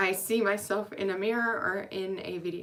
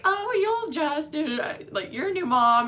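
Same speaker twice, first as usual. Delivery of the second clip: mock dismissive; 8 semitones higher than usual. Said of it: "And everybody's like".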